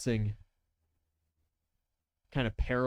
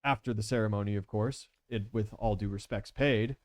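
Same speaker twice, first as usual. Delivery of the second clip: lightly voiced courteous rogue, higher; polite gentleman villain; 4 semitones higher than usual. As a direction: feign innocence with fussy politeness.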